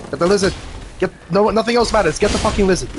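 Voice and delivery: high, loud frantic yell; excited shouting. Real, not acted. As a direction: shout it, desperate to grab the lizard. Chasing the crystal lizard.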